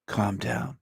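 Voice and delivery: soft, condescending calm down; mock soothing. Hushing the angry peasants, softly patronizing. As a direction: talk them down like toddlers. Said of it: "I'll tell them".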